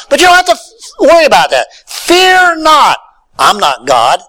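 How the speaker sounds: a hint of Joseph begging his brothers not to fear; Joseph reassuring his brothers.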